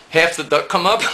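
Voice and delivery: asked through real laughter; laughing question. Real, not acted. Laughing while asking.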